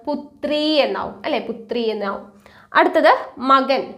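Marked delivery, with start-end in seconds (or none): 1.5-2.2 breathy whispered repeat, softer. Real, not acted. Teacher whispering the Hindi word back to her students. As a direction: drop to a whisper for the answer.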